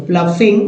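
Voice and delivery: प्लफिंग said "pluh-fing". Shown as a demonstration. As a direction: sound the middle of प्लफिंग as F. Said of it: "यू जी एच को फा बोलते हैं".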